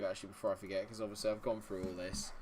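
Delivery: normal talking voice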